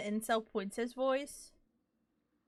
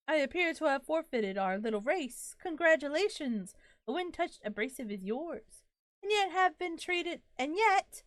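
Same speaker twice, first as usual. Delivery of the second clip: grand spirit voice. Acted. Reading the disembodied spirit's lines to the player, courtly. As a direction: read it like a polite, flowery ghost. Reads game spirit's dialogue aloud.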